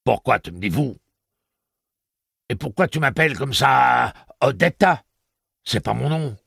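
high, loud furious woman's voice; outraged shriek. A narrator's reading. Detta rejects the name Odetta, shrill and loud. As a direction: screech it, climbing in pitch.

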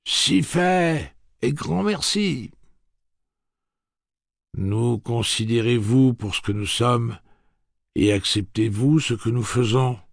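high, loud, fervent villagers answering as one; grateful crowd voice. Acted. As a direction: call it out with ringing gratitude.

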